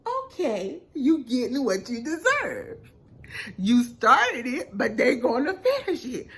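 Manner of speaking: smiling, gloating taunt; laughing I-told-you-so; smug taunt. Retold or imitated. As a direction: rub it in with a grin. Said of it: "smiling and going".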